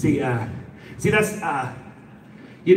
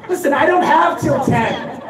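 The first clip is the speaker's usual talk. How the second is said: mock panic; 11 semitones higher than usual. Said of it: "panicked reply to the news".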